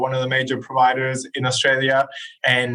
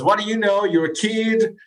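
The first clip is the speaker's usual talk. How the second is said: dismissive boss; 9 semitones higher than usual. Retold or imitated. Owner dismisses young employee.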